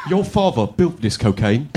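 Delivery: Michael Caine. Retold or imitated. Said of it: "the way Michael Caine said cocaine".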